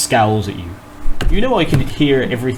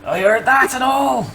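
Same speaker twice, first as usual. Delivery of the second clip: high, offended retort; indignant guard; 12 semitones higher than usual. Acted. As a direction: call back, affronted. Guard overhears the aside.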